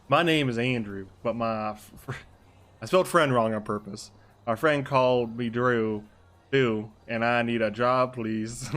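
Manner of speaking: put-on easy Arkansas accent, drawn out toward the end. Andrew writing to ask for a job, Arkansas accent. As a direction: slip into an endearing Arkansas accent, slowing down. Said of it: "I gotta s-, drop the accent though".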